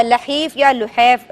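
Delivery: لحیف and لحیف drawn out slowly; both pronunciations. Shown as a demonstration. Teacher slowly shows children two ways to say it. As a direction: slowly give each variant of لحیف. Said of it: "لحیف بھی کہتے ہیں بچوں اور لحیف بھی کہتے ہیں".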